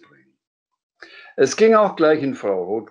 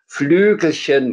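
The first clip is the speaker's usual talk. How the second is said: louder, higher exclamation; indignant call; 7 semitones higher, 8 dB louder than usual. Acted. Dragon objecting to Sams's remark, indignant cry. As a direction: throw Flügelchen back, offended. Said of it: "rief er".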